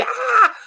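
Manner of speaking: grito agudo imitando o filho; grito de criança imitado. Retold or imitated. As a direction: um berro curto de criança, de brincadeira. (mãe imitando o berro do filho na escovação, grito agudo)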